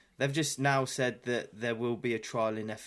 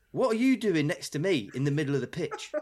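higher-pitched, incredulous comeback; mild mock outrage; retold indignant challenge; 5 semitones higher than usual. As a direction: challenge the player as a put-upon referee. Retold ref argues back at goalkeeper.

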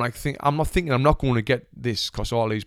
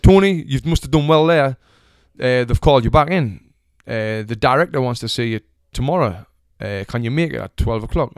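mock American accent. Agent rings with a callback, badly faked American accent. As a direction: imitate an upbeat American agent without convincing. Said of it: "In his American accent".

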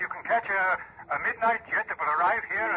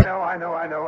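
loud impatient; 8 dB louder than usual. Acted. Boss annoyed at late arrival.

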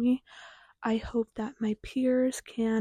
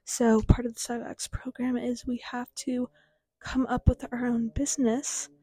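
talking with a retainer in; light lisp from a retainer; slight lisp. Real, not acted. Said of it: "sorry if I have a little bit of a lisp".

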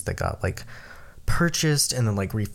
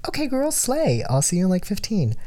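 own voice quoted; 10 semitones higher than usual. Retold or imitated. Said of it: "I was like".

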